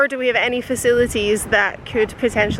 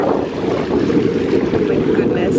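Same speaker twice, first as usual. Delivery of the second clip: slow, breathless whisper of awe; awed whisper; 4 semitones lower, much slower than usual. Real, not acted. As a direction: whisper it, stunned by the view. Awed at the beach view.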